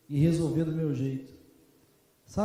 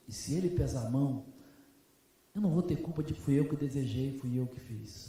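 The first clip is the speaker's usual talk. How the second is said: lower, steady wise pastor's voice; calm fatherly counsel; 4 semitones lower than usual. Retold or imitated. Old pastor calmly teaching young Marcelo, steady and low. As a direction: counsel him gently, like a father.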